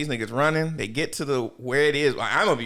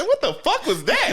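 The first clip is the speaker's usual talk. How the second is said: high startled mock question; 13 semitones higher than usual. Character hearing a ringtone, high baffled laughing question. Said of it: "He said".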